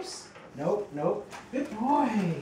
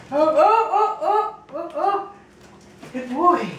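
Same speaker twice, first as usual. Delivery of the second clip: laughing; 5 semitones higher than usual. Real, not acted. Dog wobbling, laughing.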